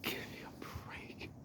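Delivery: slow, breathy whisper of awe; awed whisper. Real, not acted. Explorer staring at the slumped canal wall, awed whisper. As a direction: barely breathe it, stunned.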